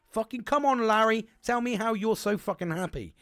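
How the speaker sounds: loud, high mock call to Larry; mock shout at Larry. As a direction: yell it at an imaginary Larry, half joking. Calling out to Larry mockingly.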